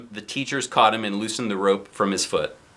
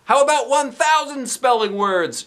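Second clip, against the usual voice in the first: higher call with a stress on thousand; mild shout; 14 semitones higher, 3 dB louder than usual. Acted. Boy shouts a counteroffer to the principal. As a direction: call out a bargain. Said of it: "shouted Ryan".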